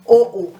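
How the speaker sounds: "oh, oh" loud, falling on the second; emphatic double oh. Shown as a demonstration. Teacher showing another way of emphasizing, emphatic double oh. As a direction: punch the first "oh", drop the second. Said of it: "teach you a different way of emphasizing".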